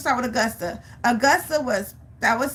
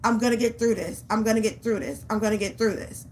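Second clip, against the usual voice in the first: self-talk; 2 semitones lower than usual. Retold or imitated. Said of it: "I was only thinking about".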